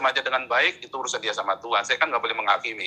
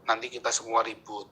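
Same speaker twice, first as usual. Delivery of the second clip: softened retold warning; imitated calming father; 2 semitones lower, 6 dB quieter than usual. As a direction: quietly voice a father's caution. Lanjutan nasihat ayahnya. (tiruan nasihat ayah, suara pelan)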